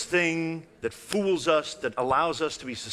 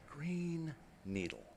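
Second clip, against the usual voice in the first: soft, slow whispered robot; 3 semitones higher, 13 dB quieter, slower than usual. Retold or imitated. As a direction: whisper it like the toy. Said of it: "the same voice".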